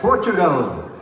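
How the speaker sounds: high, projected roll-call voice. Real, not acted. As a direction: call each country to the hall. Roll call of countries to crowd.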